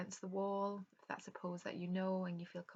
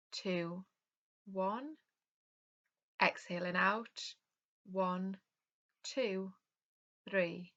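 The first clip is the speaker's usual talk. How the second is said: calm yoga nidra guidance with unhurried pauses; guided relaxation; 5 dB louder than usual. Real, not acted. Yoga teacher leading an online class into rest, calm guided meditation. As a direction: guide them gently through breath and rest, leaving space between phrases.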